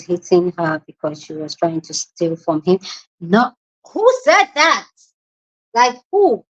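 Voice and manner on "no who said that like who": shocked. Real, not acted. Shocked at viewers blaming Cassie.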